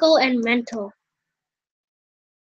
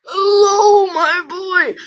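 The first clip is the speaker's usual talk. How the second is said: higher, louder fatherly voice; father's voice; 5 semitones higher, 5 dB louder, slower than usual. Acted. Father greeting his son in the lounge, higher and louder. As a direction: greet him as the jovial father. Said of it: "See, there, I got it".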